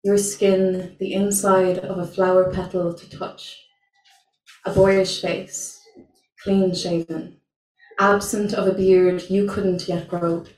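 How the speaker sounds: measured, deliberate poem reading with pauses; spoken word poetry. Acted. Spoken word poem at open mic.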